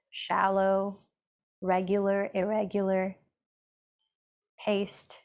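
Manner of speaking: unhurried meditation guide with long pauses; even, measured mindfulness guidance; guided meditation. Acted. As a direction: gently lead an inward check-in, leaving space between phrases.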